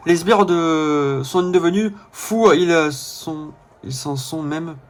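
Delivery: put-on southern French accent, game character; accent du sud. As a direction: play the line with a southern French twang. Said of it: "faire l'accent du sud au Mascas". (accent du sud joué)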